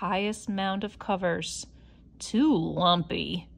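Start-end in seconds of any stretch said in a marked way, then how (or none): 2.2-3.5 grumble. Acted. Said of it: "she grumbled".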